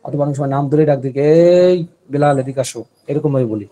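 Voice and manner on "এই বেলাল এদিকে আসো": drawn-out call across a distance; stretched hail to someone far off; calling from afar. Shown as a demonstration. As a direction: call him over from far away, slow and louder. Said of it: "অনেক মানুষকে কিন্তু আমরা দূর থেকে ডাকি".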